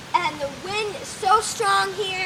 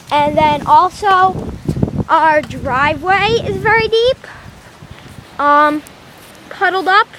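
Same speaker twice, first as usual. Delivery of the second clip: shouting over wind; 7 dB louder than usual. Real, not acted. Filming outside in strong wind.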